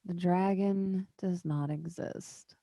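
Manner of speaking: slow, drawn-out flat contradiction; emphatic denial. Acted. Surly councillor denying the dragon, emphatic. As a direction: cut in and stretch every word.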